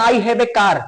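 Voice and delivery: Indian English. Shown as a demonstration. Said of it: "तो हम लोग कहते हैं".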